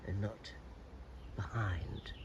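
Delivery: hoarse from a cold; rough, croaky cold voice; gravelly voice. Real, not acted. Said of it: "I've got a bit of a gravelly voice 'cause I've got a cold".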